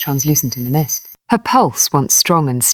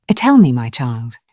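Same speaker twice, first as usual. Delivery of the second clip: softly urging; 4 semitones lower than usual. Acted. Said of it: "She urged softly".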